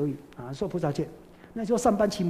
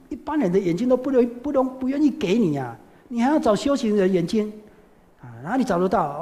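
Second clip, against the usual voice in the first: raised, louder voice of despair; anguished outcry; 4 semitones higher, 4 dB louder than usual. Retold or imitated. Old mother cries out to the monk, raised and despairing. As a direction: cry out that it cannot be done. Old woman laments impossible request.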